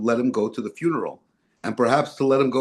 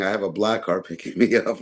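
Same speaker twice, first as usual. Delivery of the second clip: laughing quote; 4 semitones lower than usual. Retold or imitated. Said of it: "he loved saying".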